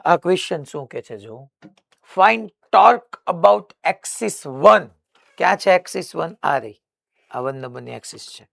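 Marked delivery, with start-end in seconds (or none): 2.2-4.9 very slow, a little higher and louder, for students to write; slow dictation. Shown as a demonstration. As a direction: spell it out word by word to the class. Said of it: "તમે ખાલી figure draw કરી રાખો". (ધીમે ધીમે લખાવવું)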